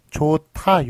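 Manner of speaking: 좋다 sounded out as "조타"; aspirated pronunciation. Shown as a demonstration. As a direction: say 좋다 as "jo-ta" with a puffed t. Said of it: "발음은 이렇게 축약이 돼서".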